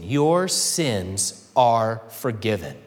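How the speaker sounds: slow gentle words of forgiveness; tender pardon. Acted. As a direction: speak it as a caring father forgiving a son. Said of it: "it's a caring term. It's a touching term".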